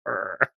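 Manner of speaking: low, soft groan of loathing; mock groan of reluctance; disgusted groan. Voice actor dreading a hated character's lines, mock disgusted groan. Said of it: "I hate this character".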